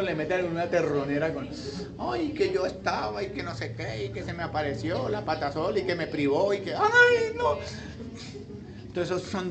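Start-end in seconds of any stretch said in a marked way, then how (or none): 2.0-7.6 hint of a scared gossip; mock frightened witness. Mock witness telling ghost sighting.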